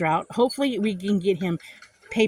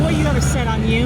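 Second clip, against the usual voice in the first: raised voice telling him off; retold telling-off, a bit louder; angry scolding; 3 semitones higher, 6 dB louder than usual. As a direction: scold the thief hard.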